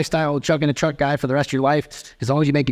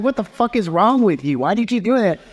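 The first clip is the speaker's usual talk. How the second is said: exasperated friend; 9 semitones higher than usual. Retold or imitated. Imitating the friend scolding him for trying again, high and incredulous. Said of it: "My friend's like".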